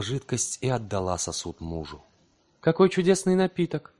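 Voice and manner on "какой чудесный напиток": soft smile. A narrator's reading. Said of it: "с тихой улыбкой".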